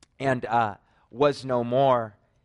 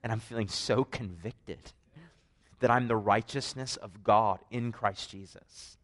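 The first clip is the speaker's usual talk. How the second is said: much softer, low, quietly moved; hushed awe; 3 semitones lower, 5 dB quieter than usual. Retold or imitated. Husband explaining to his wife, quietly moved. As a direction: say it softly, as if in wonder. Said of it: "I'm like".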